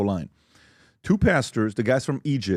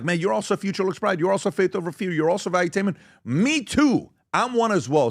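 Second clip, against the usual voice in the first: mock excited fan voice, pitched much higher; 8 semitones higher than usual. Fans spot each other's merch, mock excited and much higher. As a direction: gush like a delighted fan spotting another.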